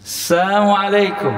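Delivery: slow, sweet "Assamualaikum" with the lam left out; sing-song "Assamualaikum", lam dropped; mock-polite greeting. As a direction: sound friendly while saying "Assamualaikum". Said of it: "Gayanya itu kayak mengucapkan salam".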